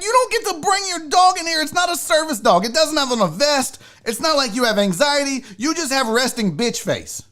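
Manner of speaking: high-pitched scolding that eases down; acted righteous complaint, starting high; indignant rant. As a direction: tell the customer off in rising exasperation. Acted rant at dog owner.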